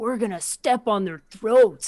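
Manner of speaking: slow talk turning suddenly fired up and intense. Retelling how a player suddenly turned it on: imitating Lou turning it on. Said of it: "he turned it on".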